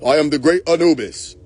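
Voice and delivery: pompous god's proclamation; mock grand deity. Self-proclaimed Anubis announcing himself, mock grandiose. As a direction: announce yourself with hammed-up majesty.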